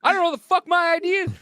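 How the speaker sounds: high, fast mock rant; quick squeaky outburst. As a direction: rattle it off furious. Repeated faster.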